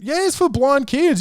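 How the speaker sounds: high, sugary fake-charity voice; hammed-up telemarketer fib; mock sales pitch. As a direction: sell the lie sweetly. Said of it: "Uh, and".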